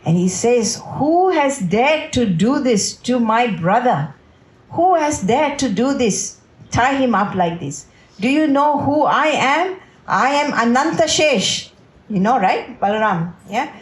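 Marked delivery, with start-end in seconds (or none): 1.0-11.7 indignant, higher-pitched storyteller's outrage; mock lion's roar. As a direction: demand answers like an outraged protective brother. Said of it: "starts to roar like a lion".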